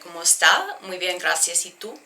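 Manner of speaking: learner's attempt at a Hispanic accent. Shown as a demonstration. Teacher imitating what Californians say, amateur Hispanic accent. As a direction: try Spanish phrases in a Hispanic accent. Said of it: "maybe a Hispanic accent".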